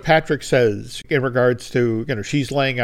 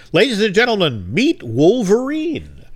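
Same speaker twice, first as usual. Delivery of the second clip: grand announcement; 7 semitones higher, 4 dB louder than usual. Retold or imitated. Director presenting Hugh to the cast, mock grand reveal. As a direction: announce him like a ringmaster.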